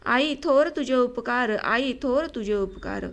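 slow, measured recital of a verse; rote poem recitation. A narrator's reading. Boy reciting a memorised poem while watching the cowshed, slow rote recitation. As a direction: recite it by heart, drawn out, dropping on the repeat. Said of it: "पाठ असलेली कविता म्हणत असे".

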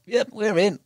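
mock-excited strike call; retold triumph. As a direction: pop it out like the fish just took. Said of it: "lead comes off".

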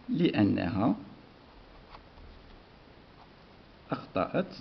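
soft, word-by-word dictation with long pauses; teacher dictating the answer to the class. Shown as a demonstration. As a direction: give each word slowly so they can write. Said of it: "dictating answer word by word".

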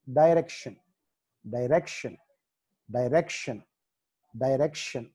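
డైరెక్షన్ starting with "dai", like "die"; teacher's model డైరెక్షన్, said "dai-rekshan"; "dai-rek-shan". Shown as a demonstration. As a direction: open the first vowel of డైరెక్షన్ to "dai". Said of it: "direction అని పలకాలి".

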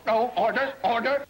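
high, flustered calls over a quarrel; calling for order. Acted. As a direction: call out over the squabbling women. Judge calling squabbling women to order.

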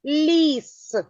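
ліс with І and С held long; word sounded out. Shown as a demonstration. Teacher asking for all the sounds, ліс drawn out. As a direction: stretch ліс so each sound is heard. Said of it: "Назвіть усі звуки у слові".

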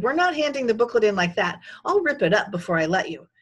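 loud, angry threat; shouted. A narrator's reading. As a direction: shout it down, laying down the law. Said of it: "Jimmy shouted".

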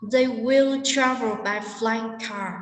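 very slow, with "travel", "flying" and "car" stressed; sentence stress. Shown as a demonstration. Teacher demonstrating stress to students, slow beats on "travel", "flying", "car". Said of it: "Vậy trọng âm của chúng ta như sau".

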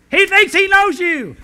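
can't hold the laugh on the punchline; husband telling his deaf wife the joke line, laughing. Acted.

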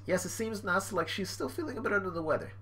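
a hint of a polite cartoon aide; character reply.

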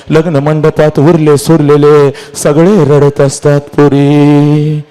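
lamenting, drawn-out calls to a daughter; grieving storyteller; mournful oration. Acted. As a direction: stretch the last word like a wail.

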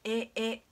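"え" said twice, evenly, with no i; two matching "え" beats; doubled e. Shown as a demonstration. Teacher explaining the long vowel, "え" repeated as two beats. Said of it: "えの音が二回続いているような音".

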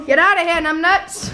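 mock Australian accent. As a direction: shoo him off in a hammed-up Aussie voice. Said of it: "Why are you doing an accent?".

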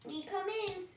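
high, sly wolf calling at the door; big bad wolf voice. A narrator's reading. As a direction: coax like a hungry wolf. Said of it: "cried the wolf".

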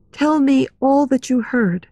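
high, controlled heroine voice; strangely calm. A narrator's reading. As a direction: ask with an eerie, composed calm. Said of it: "becoming strangely calm".

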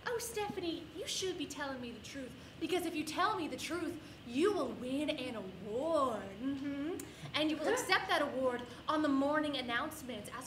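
lightly voiced sugary teacher; good cop. Teacher coaxing student to confess, mock sweet. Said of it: "she opens with good cop".

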